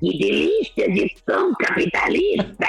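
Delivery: villain voice. Retold or imitated. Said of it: "voz de vilão isso".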